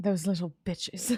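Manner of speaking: quiet mumbling under the breath. Character reacting just after leaving combat, muttering under breath. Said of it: "mutters under breath".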